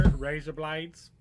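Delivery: slow mock Australian; Australian accent. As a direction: draw it out in put-on Australian. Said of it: "Australian accent that he brings out".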